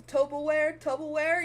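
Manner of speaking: mock-posh Tupperware with an oh sound; quoting the podcast's toe-perware; imitating podcast joke. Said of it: "of him being like".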